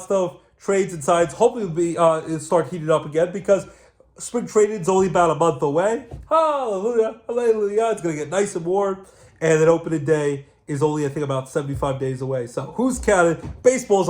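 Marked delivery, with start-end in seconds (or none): 6.3-7.9 sung-out high hallelujah; a happy little hallelujah; joyful hallelujah. Real, not acted. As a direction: cheer it like good news. Celebrating spring training near.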